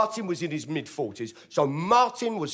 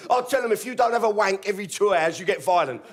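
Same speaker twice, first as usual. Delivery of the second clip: cheeky mate; 5 semitones higher than usual. Retold or imitated. Martin voiced on phone.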